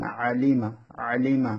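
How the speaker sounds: "আলিমা" opening on an ain from mid-throat. Shown as a demonstration. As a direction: squeeze the first sound of "আলিমা" from the middle of the throat. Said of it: "কণ্ঠ মাঝখান থেকে উচ্চারণ করবেন". ("আলিমা"-র আইন কণ্ঠের মাঝখান থেকে)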